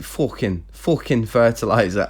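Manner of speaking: "fucking" said as "fockin"; "fucking" turned into "fockin"; Icelandic swear word. Shown as a demonstration. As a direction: say "fucking" with a rounded O, Icelandic style. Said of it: "so I might just say fucking".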